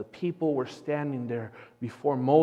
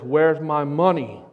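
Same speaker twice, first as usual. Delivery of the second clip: louder, indignant customer; mildly angry demand; 7 dB louder than usual. Acted. Cowboy confronts bank manager, acted indignation. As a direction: demand it forcefully, half in earnest. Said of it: "slams his fist and says".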